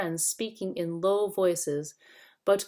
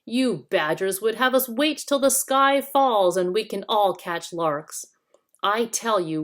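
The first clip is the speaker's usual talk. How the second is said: snarling; 4 semitones higher, 6 dB louder than usual. Acted. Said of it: "snarled Nickabrick".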